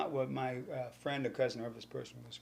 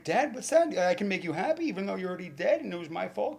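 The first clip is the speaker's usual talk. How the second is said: higher, louder eager plea; calling out to dad; 6 semitones higher, 7 dB louder than usual. Retold or imitated. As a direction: call up to your dead father. Son calls out to dead dad.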